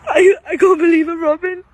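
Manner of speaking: overwhelmed and sobbing; crying disbelief. Real, not acted. To the viewers at nan's grave, crying in disbelief. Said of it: "I can't stop shaking".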